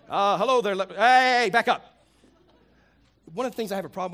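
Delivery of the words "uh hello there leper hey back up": startled priest. Retold or imitated. Priest recoiling from a leper.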